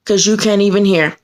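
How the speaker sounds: mildly mimicked staffer's attitude; dismissive attitude. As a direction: quote it with a touch of dismissiveness. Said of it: "With that kind of attitude".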